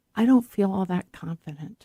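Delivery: imitated quiet manner. Retelling what people confide about public speaking: imitating someone saying it quietly. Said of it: "quietly say".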